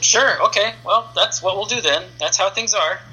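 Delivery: a hint of a casual boss settling it; breezy editor. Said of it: "And he said".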